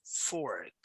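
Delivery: slow, careful "fork" with r and k sounded; drawn-out "fork" for a learner to copy; pronunciation model. Shown as a demonstration. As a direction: show how the mouth shapes "fork". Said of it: "Look at the way how I place my mouth".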